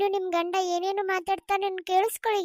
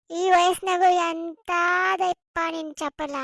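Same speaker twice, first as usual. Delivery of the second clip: slow scornful jibe; 4 dB louder, much slower than usual. Acted. Wife scolds cheating husband.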